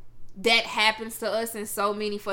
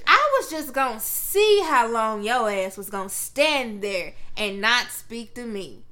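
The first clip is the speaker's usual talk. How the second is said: grandma's voice; 3 semitones lower, slower than usual. Retold or imitated. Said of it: "This is exactly how she talks".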